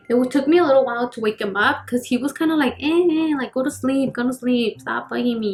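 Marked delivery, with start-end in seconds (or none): 2.8-5.5 sleepy brother grumbling. Retold or imitated. Heavy-sleeping brother shooing away sibling, mock groggy grumble. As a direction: mildly grumble as if woken up. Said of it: "a heavy sleeper too".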